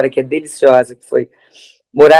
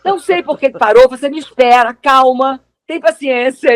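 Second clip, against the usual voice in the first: put-on higher, lilting Italian accent; 6 semitones higher than usual. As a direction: play an impatient Italian. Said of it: "desse jeito italiano".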